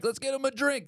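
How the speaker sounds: New York welcome. Retold or imitated. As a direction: hail the newcomer like a rowdy bar crowd. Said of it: "they were like".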